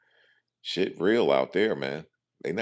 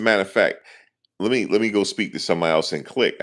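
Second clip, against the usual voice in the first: retold raised voice; 5 semitones higher, 5 dB louder than usual. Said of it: "I said".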